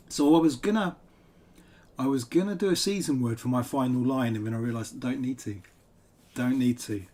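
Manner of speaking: talking around ice cubes; words blurred by ice in mouth. Real, not acted. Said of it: "I've got ice in my mouth".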